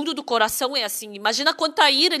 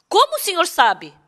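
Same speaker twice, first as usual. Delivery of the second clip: imitated startled question, pitched higher; 5 semitones higher than usual. Woman to pastor who knows her secret, imitated startled question. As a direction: mimic a taken-aback woman asking. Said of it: "Ela se assustou".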